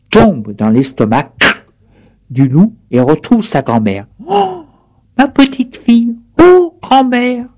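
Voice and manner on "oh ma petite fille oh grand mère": much higher, overjoyed surprise; high reunion cries. A narrator's reading. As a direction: greet each other amazed. Reunion inside the wolf. (retrouvailles aiguës et surprises)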